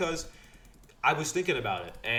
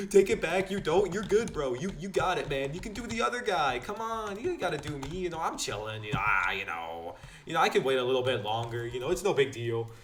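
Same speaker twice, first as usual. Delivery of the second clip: higher, hurried coaxing; pleading; 3 semitones higher than usual. Retold or imitated. A touch of nervous coaxing to the instructor. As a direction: talk him out of it.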